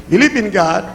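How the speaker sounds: ordinary talk, nothing marked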